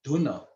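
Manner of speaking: "Dhuna" with the final na fully sounded as a syllable; full final na. Shown as a demonstration. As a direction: say every letter of "Dhuna". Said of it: "Na is pronounced fully".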